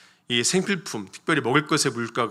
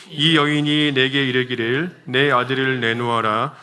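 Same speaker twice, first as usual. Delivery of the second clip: slow, measured congregational Bible reading; scripture reading aloud; 3 dB louder than usual. Real, not acted. Preacher leads congregation reading the verse together, slow measured recitation. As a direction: read the verse out slowly and evenly for all to follow. 같이 한번 읽어보도록 하겠습니다.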